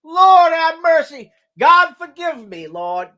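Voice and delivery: high, loud, slow laugh-cry to the Lord; cracking up while crying out for mercy; laughing plea. Real, not acted. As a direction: beg forgiveness through helpless laughter. Cracking up after a rude joke.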